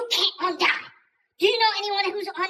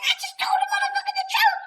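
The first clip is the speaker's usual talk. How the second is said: indignant retort; faster than usual. Retold or imitated. Defending himself to family.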